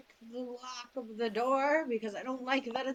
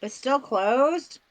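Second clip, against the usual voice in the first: surprised; 11 dB louder, much slower than usual. Real, not acted. Surprised nat twenty failed.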